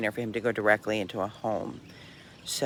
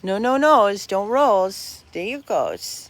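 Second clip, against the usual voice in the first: talking to a dog; 11 semitones higher, 9 dB louder, slower than usual. Real, not acted. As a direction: fuss over the puppy in a high voice.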